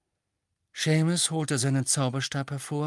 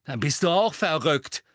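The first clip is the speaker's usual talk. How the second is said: higher-pitched scornful dismissal; contemptuous; 5 semitones higher, 4 dB louder than usual. A narrator's reading. Seamus dismissing Ron as crazy, contemptuous. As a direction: write him off with contempt. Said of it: "sagte Seamus verächtlich".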